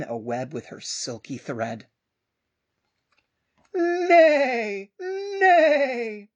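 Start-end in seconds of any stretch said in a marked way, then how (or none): 3.7-6.3 high, loud whinnying neigh; horse neigh. Acted. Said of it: "said the horse".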